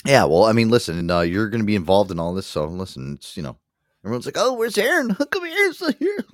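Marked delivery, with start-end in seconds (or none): 4.4-6.2 high, whiny mock of worried fans. Mocking listeners who miss Aaron, in a high whine. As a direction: pitch it up like a fretting fan.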